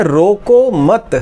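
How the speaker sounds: "रोको मत" drawn out slowly as one unit, then a pause; comma after मत. Shown as a demonstration. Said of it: "अल्प विराम के साथ इसको उपयोग करें तो दो तरह से".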